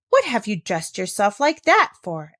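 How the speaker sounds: loud scolding demand; indignant exclamation. Acted. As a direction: scold her for dressing up. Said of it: "exclaimed Miss Rottermeier".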